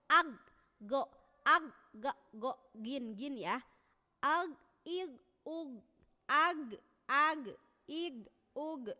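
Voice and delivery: "ag, ig, ug" loud with a throaty flow; ghain recitation. Shown as a demonstration. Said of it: "itu juga mengalir mengucapannya".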